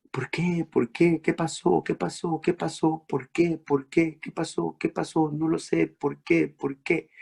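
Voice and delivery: soft, repeated, bewildered questioning; a mother asking herself quietly, lost; inner anguished questions. Acted. María preguntándose interiormente. (la Virgen preguntándose en silencio, angustiada)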